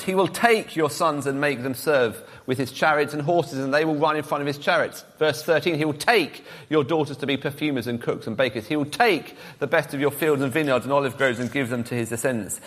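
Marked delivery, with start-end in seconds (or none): 0.0-5.0 "take" punched a little harder than the words around it; stress on take. Shown as a demonstration. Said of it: "if I emphasize the words". 5.8-12.6 "take" stressed each time it comes. Shown as a demonstration. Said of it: "if I emphasize the words".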